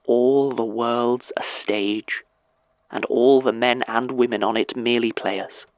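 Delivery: slow, measured recitation; understated stage soliloquy; Shakespeare monologue. Acted. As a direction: recite it slowly, drawing out the lines. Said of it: "that is a monologue by Jacques".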